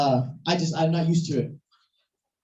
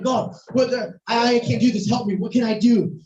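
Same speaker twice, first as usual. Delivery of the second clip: retold desperate pleading; 4 semitones higher than usual. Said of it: "I'm wrestling with God".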